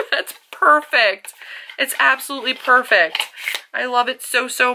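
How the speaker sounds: delighted. Real, not acted. Vlogger thanking Melanie for the palette, high delighted gush. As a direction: giggle then gush with joy.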